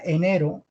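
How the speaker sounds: "enero" with a light tapped R; soft R. Shown as a demonstration. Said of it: "es una R suave".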